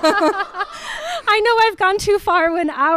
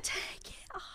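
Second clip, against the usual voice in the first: shocked repetition; 7 semitones higher than usual. Retold or imitated. Retold shocked reaction.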